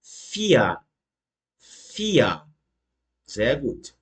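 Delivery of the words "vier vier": "vier" pronounced "fia". Shown as a demonstration. Teacher repeating for students, "vier" ending in A. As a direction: say "vier" with F first and A last. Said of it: "E R a gente vai falar com som de A".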